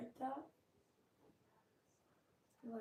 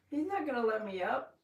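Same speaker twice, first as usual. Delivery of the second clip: laughing; 3 semitones higher, 5 dB louder than usual. Real, not acted. Laughing, dog on top.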